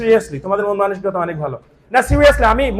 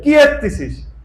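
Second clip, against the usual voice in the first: high-pitched regional Bangla question; home regional accent; 7 semitones higher, 4 dB louder, slower than usual. Shown as a demonstration. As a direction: ask it in broad home dialect, pitched up. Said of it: "ওটা হচ্ছে আমার accent". (বাড়ির আঞ্চলিক টানে চড়া সুরে)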